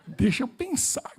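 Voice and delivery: slow whisper to himself; whispered thought. Retold or imitated. He stops to think about his mistake, whispering. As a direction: mutter it inwardly, puzzled. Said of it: "inner thought".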